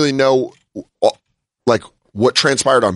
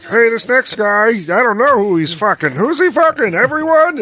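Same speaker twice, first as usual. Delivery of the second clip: mock comic; 7 semitones higher than usual. Mocking the comic's prank.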